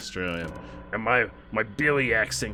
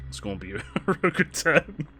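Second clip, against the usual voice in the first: cracking up mid-impression; laughing in character; 4 semitones higher than usual. Streamer breaking up at own bootleg Pikachu, laughing. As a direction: try to hold the fake Australian voice through laughter.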